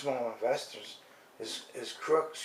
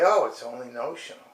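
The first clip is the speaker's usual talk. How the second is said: mock dismissive; 2 semitones lower, 3 dB louder, faster than usual. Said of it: "and say".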